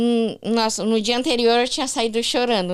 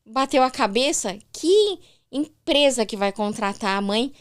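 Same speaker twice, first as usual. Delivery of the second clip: incredulous mother; 3 semitones higher than usual. Retold or imitated. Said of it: "Ela falou".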